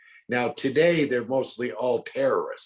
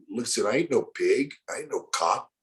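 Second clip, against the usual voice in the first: posing as Pedro. Retold or imitated. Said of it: "This is Pedro".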